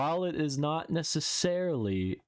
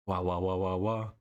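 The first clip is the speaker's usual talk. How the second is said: put-on baby crying; 3 semitones lower than usual. Shown as a demonstration. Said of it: "How was that?".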